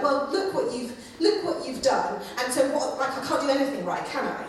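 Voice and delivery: bitter whine with a laugh in it; resentful, bitter. Retold or imitated. Israel sulking at God, resentful and bitter. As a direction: sulk and blame, half laughing. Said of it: "this kind of resentful, bitter".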